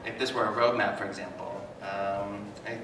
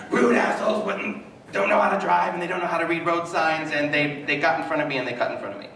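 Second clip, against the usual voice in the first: mock road rage; 6 semitones higher, 4 dB louder than usual. Mocking angry driver thoughts.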